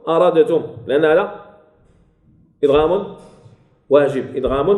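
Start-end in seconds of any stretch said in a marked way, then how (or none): 0.1-0.6 أردتم with the dal pronounced on its own; faulty unmerged pronunciation. Shown as a demonstration. Teacher repeats the error in أردتم, d left unmerged. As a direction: split أردتم into a clear d, then t. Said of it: "خطأ أن أقول أردتم".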